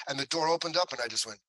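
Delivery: usual speaking voice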